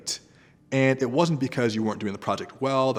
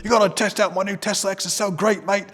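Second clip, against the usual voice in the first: louder, higher mock British mate accent; 10 semitones higher, 6 dB louder than usual. British friend bragging about his Tesla, hammed-up British accent. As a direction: ham up a British bloke bragging. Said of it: "mixing Australian and British".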